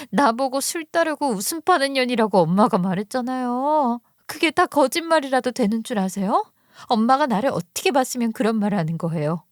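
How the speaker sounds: lightly acted wronged daughter; a touch of hurt indignation; accusing daughter. Narrator voices angry sister-in-law.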